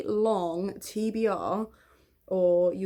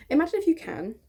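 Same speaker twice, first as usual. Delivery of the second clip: "Imagine" launched higher and louder, grand and theatrical; dramatic storyteller opening; 7 semitones higher, 4 dB louder, faster than usual. Shown as a demonstration. Inviting viewers into her childhood story, theatrical. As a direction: sweep them into the story like a fairy tale.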